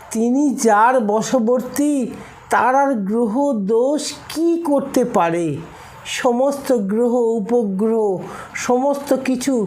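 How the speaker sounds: rising sermon fervour; fervent preaching. Acted. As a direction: lift the voice in devotion. Preacher rises to fervent climax.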